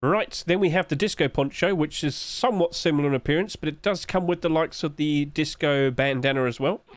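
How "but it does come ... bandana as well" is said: talking through hiccups; hiccuping mid-sentence. Real, not acted. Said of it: "I've got the hiccups randomly".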